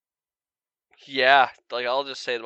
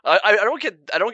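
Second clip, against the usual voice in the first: laughing while talking; 9 semitones higher, 6 dB louder, faster than usual. Real, not acted. Stammering through laughter.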